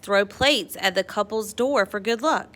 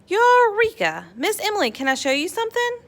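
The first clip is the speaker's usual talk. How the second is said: excited; 12 semitones higher, 4 dB louder than usual. A narrator's reading. Excited girl calls out invention.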